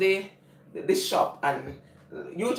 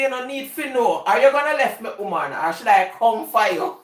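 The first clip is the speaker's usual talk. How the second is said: man's voice; 3 semitones higher, 4 dB louder than usual. Retold or imitated. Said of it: "we talking like a man".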